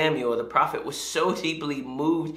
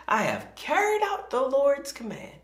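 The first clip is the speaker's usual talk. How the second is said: higher, beaming announcement of success; cheerful boast; 11 semitones higher than usual. Acted. Saul boasting to Samuel, higher and mock cheerful. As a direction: proudly report the job done. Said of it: "Saul greeted him cheerfully".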